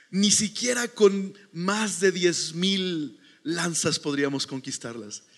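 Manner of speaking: slow, drawn-out dramatic movie quote; lightly acted movie villain. Wormtongue speaking with Saruman about conquest, slow lightly acted voice. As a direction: lightly imitate a schemer, stretching the words. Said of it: "lengua de serpiente está hablando con".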